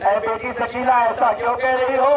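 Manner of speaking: high, rising plea in a mourning sermon; impassioned lament preaching. Acted. (दर्द भरी, चढ़ती हुई मसायब की आवाज़)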